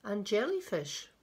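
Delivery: put-on children's picture-book reading, lilting; storyteller pausing between phrases; story narration. A narrator's reading. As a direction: read it to little ones with deliberate emphasis. Reads a picture book aloud.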